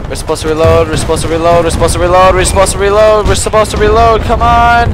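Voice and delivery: rising exasperated yell; building frustration. Real, not acted. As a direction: build from annoyed to yelling. Frustrated at teammates not reloading.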